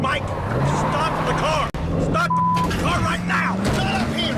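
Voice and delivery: high, drawn-out frantic order; panicked yelling. Real, not acted. Passenger begging Mike to halt the car, panicked yell. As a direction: plead at a high pitch, stretching each command. Passenger pleads with reckless driver.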